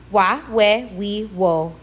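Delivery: Wa, we, we, wo each starting on an English W; W-glide vowels. Shown as a demonstration. Teacher showing U before a vowel, W sound in Wa, we, we, wo. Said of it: "sounds like an English W".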